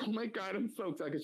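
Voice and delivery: high mock excited gushing; imitating high girly excitement; mock gamer girl. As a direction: gush like an excited streamer. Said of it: "She was like".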